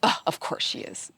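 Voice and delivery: hushed, sighing inner grumble; retold eye-rolling aside under the breath; exasperated. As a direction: mutter it softly, fed up. Retold annoyed thought about her nemesis.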